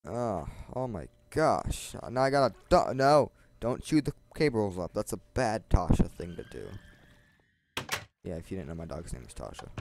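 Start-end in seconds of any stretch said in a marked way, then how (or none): 2.1-6.7 scolding dog. Real, not acted. Scolding dog chewing cables.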